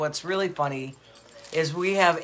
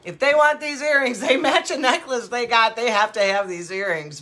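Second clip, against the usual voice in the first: much higher and louder, eager push; excited insisting; 5 semitones higher, 4 dB louder than usual. Retold or imitated. Host retells urging her friend about earrings, excitedly. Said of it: "I'm like".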